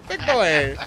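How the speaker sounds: exaggerated Asian-accent impression; imitated Asian accent. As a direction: call it out in a put-on Asian accent. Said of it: "I try and do it all the time".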